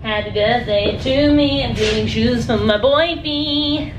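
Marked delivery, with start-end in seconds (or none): 0.0-1.6 giggling as she says it; laughing it out to herself. Real, not acted. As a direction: laugh through happy birthday to me. Laughing birthday line.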